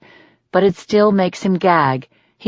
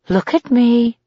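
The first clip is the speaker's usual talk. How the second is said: higher, commanding order; 6 semitones higher than usual. A narrator's reading. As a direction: order him to look at her. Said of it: "Gretchen orders".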